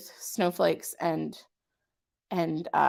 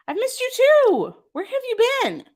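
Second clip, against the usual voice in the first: much higher, delighted hello to a friend; high, delighted welcome to a returning viewer; excited greeting; 14 semitones higher than usual. Real, not acted. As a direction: squeal a happy welcome back.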